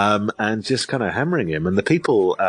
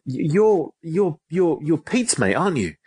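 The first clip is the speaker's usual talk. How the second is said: imitating a flustered man stammering, pitched higher; 7 semitones higher than usual. Troll fumbling to place the teller, higher stammer. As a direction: stumble on you're before landing on the name. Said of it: "he goes".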